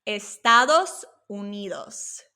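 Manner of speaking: "Estados Unidos" said slowly and clearly; measured teaching pace on "Estados Unidos"; slow Spanish model. Shown as a demonstration. Teacher translating United States for learners, slow demonstration. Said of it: "And the United States".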